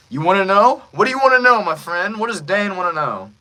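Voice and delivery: loud, high, gleeful villain taunt. Shown as a demonstration. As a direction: taunt him like a hyped-up villain.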